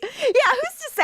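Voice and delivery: high sing-song innocence; mock innocent.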